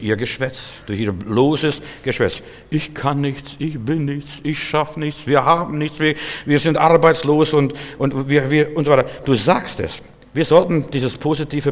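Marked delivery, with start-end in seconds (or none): 2.7-9.1 higher, whiny litany of failures; self-pitying complainer. Retold or imitated. Preacher mimics people who talk themselves down, lightly whiny. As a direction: moan about having nothing.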